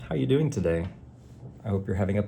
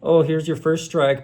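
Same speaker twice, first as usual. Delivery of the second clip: mock cheery strike notice; 6 semitones higher than usual. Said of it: "no warning".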